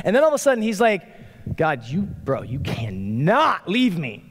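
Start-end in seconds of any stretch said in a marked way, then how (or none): 1.5-4.2 hammed-up desperate pleading, NOT drawn out; desperate plea. David begging God to stay, acting desperate. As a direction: plead slowly as if about to be abandoned. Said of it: "the desperation in David's voice".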